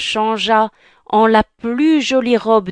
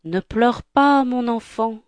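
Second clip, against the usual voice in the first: gentle; 4 semitones higher than usual. Acted. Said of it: "une gentille voix".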